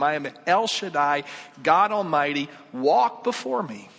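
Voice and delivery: emphatic, building proclamation; God Almighty. Acted. The Lord speaks to Abram, commanding proclamation. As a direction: declare it with mounting authority. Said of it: "the Lord appeared to him and said to him".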